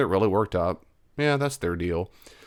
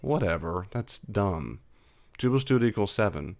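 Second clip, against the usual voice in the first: softer, unbothered brush-off; dismissive reply; 4 dB quieter than usual. Retold or imitated. The listener calmly waving off the relative's claim, softer. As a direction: shrug it off, not taking the bait. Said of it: "you might go".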